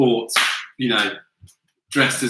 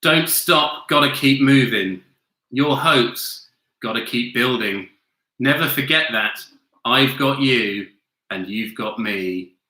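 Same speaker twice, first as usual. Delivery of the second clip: monotone reading. Shown as a demonstration. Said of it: "and again".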